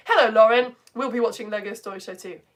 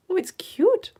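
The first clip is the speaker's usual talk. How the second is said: whisper; 8 semitones higher, slower than usual. Real, not acted. Cooing over a viewer's photo.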